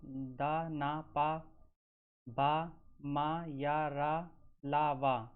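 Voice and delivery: syllables sounded out one by one; teacher sounding out. Shown as a demonstration. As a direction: pronounce each aspirate-free consonant clearly for the class. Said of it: "जैसे".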